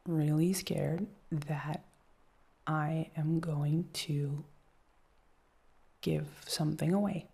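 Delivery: slow hushed nervous words; slow anxious confession. Real, not acted. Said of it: "I'm just really terrified".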